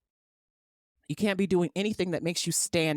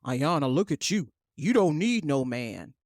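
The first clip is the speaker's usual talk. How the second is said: mock praising onlooker; 5 semitones lower than usual. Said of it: "How many times do I have to be told".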